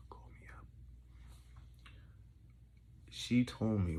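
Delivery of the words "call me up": mock-seductive whisper; flirty whisper. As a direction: whisper a playful come-on. Mock flirting with former teacher.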